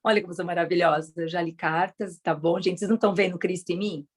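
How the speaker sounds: smug, self-admiring boast, lightly voiced; a hint of the proud spiritual ego; mock spiritual ego. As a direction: show off like a vain seeker. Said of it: "ele quer falar assim".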